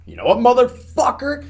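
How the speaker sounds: high, loud enraged shout; retelling a bandmate's furious outburst; furious yell. Retold or imitated. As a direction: explode at the other driver. Mike snaps at tailgating driver.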